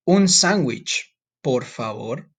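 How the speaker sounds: a polite customer asking; customer ordering. Shown as a demonstration. Student playing diner orders politely. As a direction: politely order a sandwich in Spanish. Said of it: "Person number one would say".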